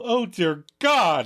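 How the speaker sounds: desperate prayer. Retold or imitated. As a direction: beg heaven for rescue. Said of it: "Joey turns to prayer".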